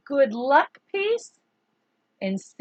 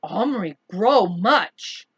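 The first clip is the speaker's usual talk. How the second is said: lightly voiced Little Bear; 3 semitones lower, 5 dB louder, slower than usual. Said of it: "he remarked".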